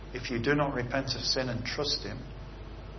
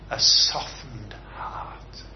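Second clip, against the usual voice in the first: hushed; 3 semitones lower, much slower than usual. Acted. Preacher dwells on key phrase.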